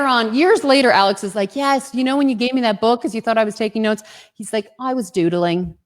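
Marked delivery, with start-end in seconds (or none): 1.6-4.0 put-on Welsh accent. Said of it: "my best Welsh accent". 4.8-5.8 light attempt at a Welsh accent. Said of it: "my best Welsh accent".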